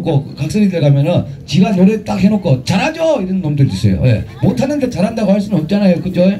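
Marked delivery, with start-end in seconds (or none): 2.6-3.2 high, smug fishing for praise; a hint of a smug performer; mock smug singer. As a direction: ape a show-off asking for applause. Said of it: "어떤 새끼들은 그래요".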